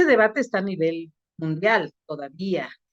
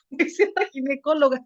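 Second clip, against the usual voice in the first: laughing; 5 semitones higher than usual. Real, not acted. Laughs while retelling girl's answer.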